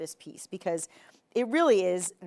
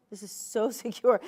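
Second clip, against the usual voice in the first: laughing; 2 semitones higher, 3 dB louder than usual. Real, not acted.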